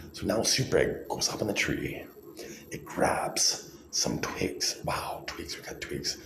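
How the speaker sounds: hushed storytelling whisper; breathy whisper. Pretend. Narrating egg story softly.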